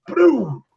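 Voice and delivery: punchy spoken boom effect; imitated explosion. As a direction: mimic a bomb going off. Mimics a bomb being thrown.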